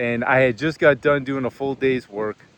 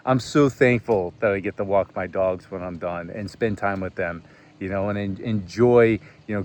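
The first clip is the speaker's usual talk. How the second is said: grateful inner voice; 4 semitones lower than usual. Retold or imitated.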